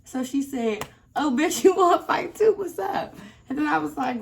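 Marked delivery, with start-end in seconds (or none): 1.2-3.2 high, loud mocking dare through a laugh; a laughing, hammed-up high challenge; taunting dare. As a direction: imitate the mother squaring up. Mother challenging narrator.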